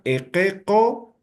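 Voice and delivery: "equeco" with E, E and O vowels; allophone vowel pronunciation. Shown as a demonstration. Teacher sums up the dictated words, pronouncing with allophone vowels. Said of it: "vamos a pronunciar".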